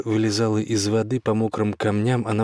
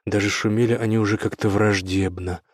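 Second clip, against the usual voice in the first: ordinary delivery, nothing marked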